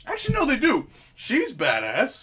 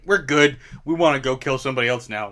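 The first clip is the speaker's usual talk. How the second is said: loud, fast, casual zombie; 6 dB louder, faster than usual. Pretend. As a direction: toss it off like a satisfied zombie. Voices zombies after a bite.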